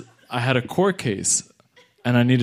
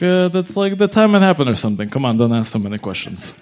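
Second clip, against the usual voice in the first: dismissive lawyer. Retold or imitated. Cocky lawyer brushes off question.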